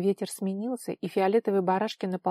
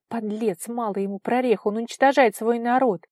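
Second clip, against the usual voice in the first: mild indignation building louder; indignant; 3 semitones higher, 7 dB louder than usual. A narrator's reading. Vara hears of Gert's deeds, growing indignant. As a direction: let the outrage swell to the last phrase. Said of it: "растёкся жар возмущения".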